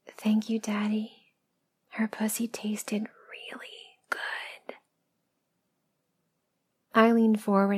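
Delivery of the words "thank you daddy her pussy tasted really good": soft whisper, fading out; whispering back. Acted. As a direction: whisper it back, trailing softer and slower at the end. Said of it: "And I whisper back".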